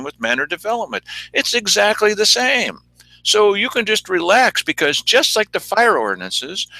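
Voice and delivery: lightly mimicked official reassurance, pitch lifting; mock commissioners. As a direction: plead innocence as a mock official. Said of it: "what the commissioners are trying to tell you".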